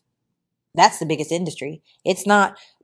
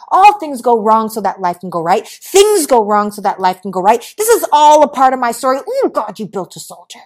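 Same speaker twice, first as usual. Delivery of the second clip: louder, emphatic affirmations; declared mantra; 3 semitones higher, 7 dB louder than usual. Acted. Speaker feeding herself mantras when things go wrong, emphatic conviction. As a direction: proclaim it like a personal creed.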